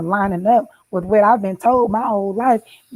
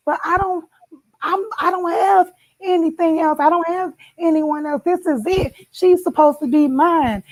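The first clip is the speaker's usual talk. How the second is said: desperate tearful plea; 6 semitones higher than usual. Retold or imitated. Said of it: "none of my tears".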